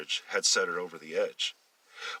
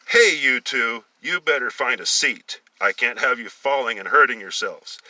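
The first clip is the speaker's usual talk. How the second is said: louder driver's scolding; 4 semitones higher, 9 dB louder than usual. Acted. Bus driver scolding two boys standing in the aisle. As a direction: order them to sit. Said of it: "scolded them".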